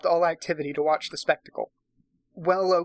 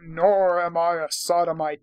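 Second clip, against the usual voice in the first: mock repeat; 5 dB louder than usual. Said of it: "but I'm just".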